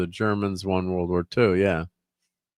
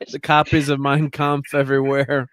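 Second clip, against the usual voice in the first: raised mock-incredulous voice; louder, higher incredulous jab; quoting a joke, louder; 4 semitones higher, 4 dB louder than usual.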